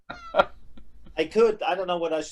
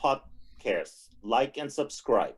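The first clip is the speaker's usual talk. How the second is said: deliberate promo read; 4 semitones lower than usual. Shown as a demonstration. Recording the promo on request.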